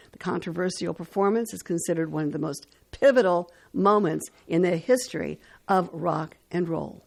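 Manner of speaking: measured announcer read with pauses before names; radio history read. Acted. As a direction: read out the dates and facts like a radio host. Reads today in history on radio.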